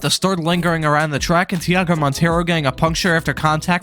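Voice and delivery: sore swollen throat, real; talking through a swollen sore throat. Real, not acted. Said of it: "so if I sound jacked up, that's because my throat is swollen".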